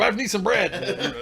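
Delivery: slow, high, loud demand through laughter; mock shouted order. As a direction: call the order out, amused. Mimes calling out orders, laughing.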